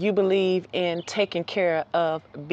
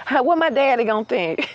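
a doubtful female bird, higher and louder; doubtful hen; 4 semitones higher, 5 dB louder than usual. Pretend. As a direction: shake your head at the fight. Hen worries about her daddy.

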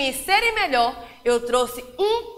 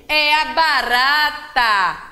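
slow, sing-song poem reading with long pauses; teacher reading a rhyme aloud to a class; poem for children. Acted. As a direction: recite it to little ones, savouring each rhyme.

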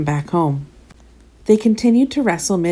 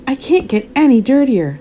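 laughing; 6 semitones higher, 4 dB louder than usual. A narrator's reading. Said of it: "laughed Dev at last".

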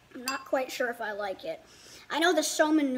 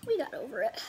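whispering; faster than usual. Real, not acted. Confessing a rough morning.

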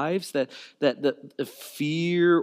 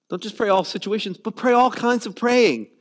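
rising emphasis; 4 semitones higher, 5 dB louder than usual. Real, not acted. Preaching build.

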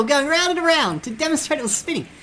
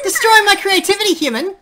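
Papyrus voice; 2 semitones higher, 4 dB louder than usual. Pretend. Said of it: "I'm the Great Trap Papyrus".

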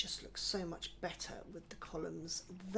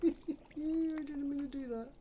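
laughing; 7 semitones higher, 4 dB louder, slower than usual. Real, not acted. Laughs after the slip.

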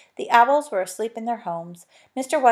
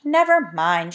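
shouted; 3 semitones lower, 4 dB louder, slower than usual. Acted. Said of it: "she shouted".

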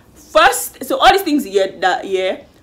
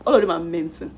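laughing; 5 semitones lower, 4 dB quieter, faster than usual. Real, not acted. Laughs at own joke.

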